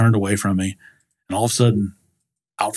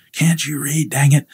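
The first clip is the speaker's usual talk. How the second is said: raised, mildly irate mock snap; retold anger; 5 semitones higher, slower than usual. Man rejecting a salesman's card, retold as mildly angry. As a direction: imitate an irritated man telling you off. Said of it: "he was mad enough".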